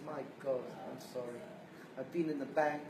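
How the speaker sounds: meek apologetic wife; soft apology. Retold or imitated. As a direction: say sorry quietly, deflated. Wife apologizing after storming off.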